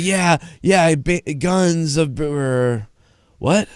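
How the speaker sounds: mock-confused stranger, lightly voiced; confused bystander. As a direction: stumble over it like a puzzled onlooker. Confused onlookers stammering at shirt.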